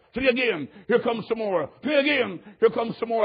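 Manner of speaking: high, quick repeated calls; excited calling. Retold or imitated. Leader calling as people walk the aisle, excited. Calling as converts keep coming.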